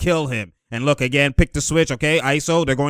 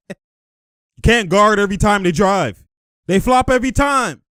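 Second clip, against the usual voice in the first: loud, high mock complaint; hammed-up high grievance; imitated player protest; 4 semitones higher, 4 dB louder than usual. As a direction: protest to the referee as the player, voice raised. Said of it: "He's like".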